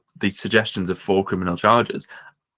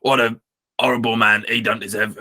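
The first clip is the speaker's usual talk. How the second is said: badly faked Cockney accent, barely shifted; a weak stab at Alan Sugar's Cockney. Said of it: "I know he's Cockney, but that's terrible".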